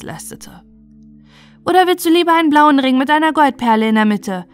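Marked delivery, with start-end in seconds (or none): 1.6-4.4 put-on high, generous child's offer; eager little boy. A narrator's reading. Little brother offering a dearer ring, eager. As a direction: pipe up as a small boy.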